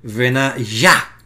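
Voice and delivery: Benayah said with the weight on the last syllable, yah; stress on final syllable. Shown as a demonstration. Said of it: "la sílaba final tiene la acentuación".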